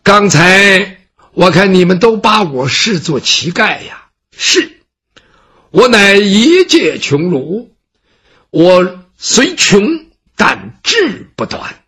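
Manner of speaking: slow, proud recital of principles; lofty scholar declaiming. Acted. Gongsun Ce lectures the servant on his pride, slow declaiming. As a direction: declaim it like a classical maxim.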